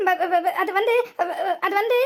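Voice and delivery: stuttering on ப- before அது வந்து; nervous stammer. Acted. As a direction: trip over the words, scared. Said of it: "என்ன வாய் தந்தி அடிக்கிற போல". (பயத்தில் திக்கித் திணறல்)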